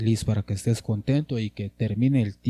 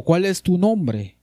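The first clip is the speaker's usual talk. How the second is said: angel asking; 7 semitones higher, 5 dB louder, slower than usual. Acted. Angel's question read higher.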